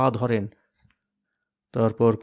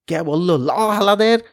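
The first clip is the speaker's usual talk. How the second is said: slow, loud, higher menacing call; thug's slow taunt; menacing growl; 5 semitones higher, 5 dB louder than usual. Acted. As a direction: draw out the threat. Fight shout, slow.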